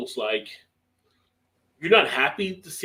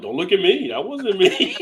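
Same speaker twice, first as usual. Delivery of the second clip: high, lightly voiced dog in mock protest; high-pitched mock denial; dog protesting innocence; 7 semitones higher, 5 dB louder than usual. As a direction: play the blameless dog, pitched up with amusement. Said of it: "Dog like".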